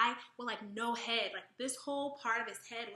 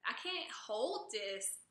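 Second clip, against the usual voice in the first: mock whiny weakling; 4 dB quieter than usual.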